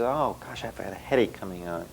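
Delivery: soft, low, weary murmur of a headache starting; a client quietly moaning to her therapist, mildly hushed; quoted client. Retold or imitated. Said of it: "the first thing that happens is".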